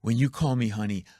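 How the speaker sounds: fussy, offended little man; whiny complainer. Retold or imitated. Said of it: "a guy goes like this".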